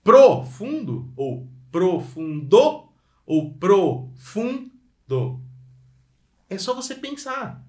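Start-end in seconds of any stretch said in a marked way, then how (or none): 0.0-5.4 profundo said slowly three times, each stress moved; slow, loud drill of profundo stresses; shifting the stress. Shown as a demonstration. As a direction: try the accent on each syllable of profundo. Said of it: "Qual que é a sílaba tônica".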